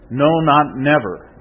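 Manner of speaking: "No, not never" spaced out slowly; emphatic denial. Shown as a demonstration. Preacher reassuring the congregation of the promise, slow and emphatic. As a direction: weigh each word of "No, not never". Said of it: "the Greek is very emphatic".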